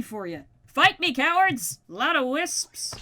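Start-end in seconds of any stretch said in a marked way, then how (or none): 0.7-1.8 mock taunt. Taunting nether mobs.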